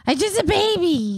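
very high, put-on baby voice; mock baby voice. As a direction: play the helpless little baby. Mock baby whine after teasing.

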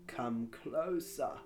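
friendly. Acted. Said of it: "in a friendly voice".

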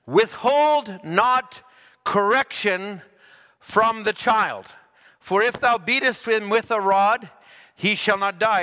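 slow, emphatic verse reading; scripture reading. Acted. Preacher reading Proverbs to the congregation, slow and solemn. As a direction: intone each phrase slowly.

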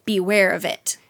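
hammed-up menacing warning; retold threat. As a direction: act out a warning, drawing out the opening words. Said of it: "Then she threatens him with hell".

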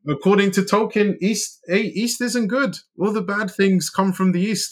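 high giggly voice through the words; amused and laughing. Real, not acted. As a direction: still laughing while he explains.

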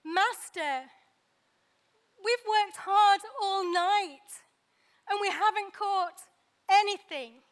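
weary, resigned plea; tired and defeated. Acted. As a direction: sigh it out like a worn-out fisherman. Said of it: "you can hear the resignation in his voice".

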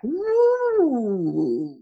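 long high "woo", sliding down; imitated woo. Singer imitates the studio crew's reaction, long swooning woo. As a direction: draw out a high, falling woo. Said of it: "they were like".

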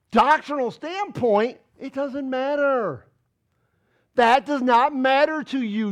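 loud, insistent sermon delivery; emphatic preaching. Real, not acted. Preacher challenging Gentiles on what matters, emphatic preaching. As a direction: press the point hard, stretching key words.

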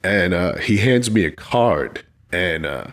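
really moved, voice sinking low; holding emotion back, low and halting; choked up. Real, not acted. Officer retelling a stranger's thanks, choked up. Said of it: "now I'm getting choked up".

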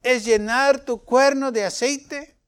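a hint of God scolding Samuel; the Lord speaking.

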